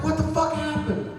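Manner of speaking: high-pitched startled question; mock alarm, voice jumping up; retold alarm. Retelling his alarmed reaction.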